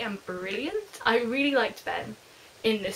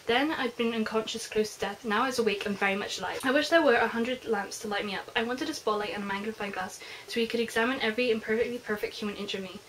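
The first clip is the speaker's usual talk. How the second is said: softer, lightly dramatic reading of a passage; book reading; 4 dB quieter than usual. Acted. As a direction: read the lines as if they were intimate. Reads book passage aloud.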